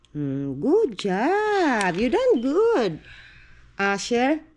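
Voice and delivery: slow, drawn-out good job; praising. Real, not acted. Mother praises her son for drinking slowly, slow warm praise.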